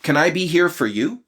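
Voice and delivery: high-pitched, solicitous question; eager concern for partner; caring check-in. Acted. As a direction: offer help with lifted, attentive voice. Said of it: "I would also be like".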